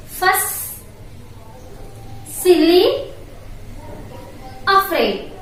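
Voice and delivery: each word alone with a long pause after it; rising tune on each word from beware through silly, falling on afraid; word-list drill. Shown as a demonstration. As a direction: read beware, jungle, palm tree one by one for repeating. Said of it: "once again, I am going to tell you all these interesting words".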